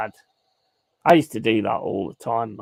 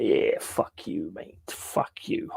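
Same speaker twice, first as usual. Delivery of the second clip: mock whisper; 7 semitones lower, 9 dB quieter, slower than usual. Retold taunt at shoplifter.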